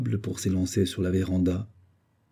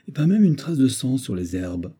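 higher-pitched, mildly indignant exclamation; exclaiming; 4 semitones higher than usual. Acted. Captain reports no trail of the leopard, exclaiming. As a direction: keep exclaiming over the lost prey. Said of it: "s'écria le capitaine Hodde".

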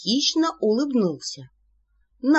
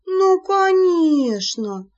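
slow, much higher, louder sarcasm; sarcastic shout; 10 semitones higher, 5 dB louder, much slower than usual. Acted. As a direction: yell it with scorn. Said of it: "закричала я". (саркастический крик)

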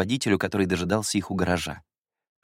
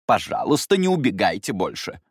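stern request; 4 dB louder than usual. Acted. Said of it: "строго проговорила миссис Нар".

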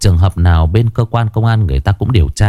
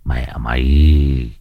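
angry scolding; 4 semitones lower than usual. Acted. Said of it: "quắc mắt chửi thằng đàn em".

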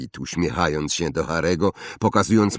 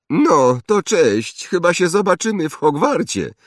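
put-on higher, louder haughty boy voice; snobbish boy; 11 semitones higher, 6 dB louder than usual. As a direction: play a spoiled rich boy. Draco farewell. (wyższy głos zarozumiałego chłopca)

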